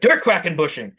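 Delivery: mock German accent on "Der Quackenbushing", Qu said as Kv; poor German accent. Shown as a demonstration. Inventor showing off his product name, poor German accent. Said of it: "I'm probably using a poor accent for that".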